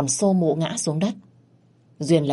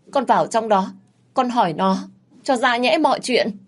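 higher, rising pleading that climbs to a cry; desperate begging; 5 semitones higher than usual. Acted. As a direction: beg him, growing frantic at the end. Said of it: "van xin".

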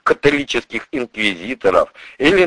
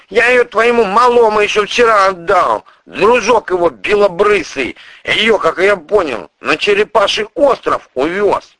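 high, loud, hurried explanation; covering himself; prosecutor's voice; 10 semitones higher, 5 dB louder than usual. Acted.

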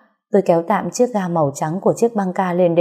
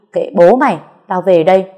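louder, fed-up snap; angry outburst; 6 dB louder than usual. Acted. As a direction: storm off shouting at him. Mother storms off angrily.

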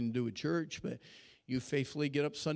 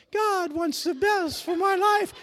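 put-on high, loud, slow girly shout; mock a girls' voice up high; guys sounding like girls; 9 dB louder, slower than usual. Shown as a demonstration. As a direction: falsetto crowd shout imitating girls. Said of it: "Just the guys sound like girls".

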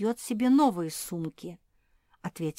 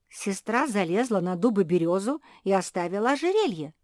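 shout; 5 dB louder than usual. Acted. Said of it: "закричала Куки".

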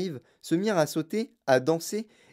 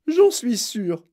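high, loud assertion; upset insistence; 9 semitones higher, 7 dB louder, much slower than usual. A narrator's reading. Mother is sure of disaster, insistent. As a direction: insist at full voice.

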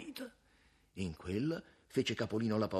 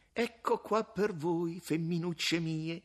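smug taunt; 8 semitones higher, slower than usual. Acted. Smug private thought.

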